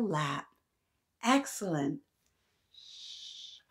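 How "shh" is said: soft unvoiced shh; shushing. Real, not acted. Teacher hushing the children before story. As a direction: hush the class gently.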